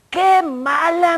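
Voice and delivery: high, drawn-out imitated reproach; mock scolding. Older woman condemning the visitor, mock scolding. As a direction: stretch the disapproval out slowly.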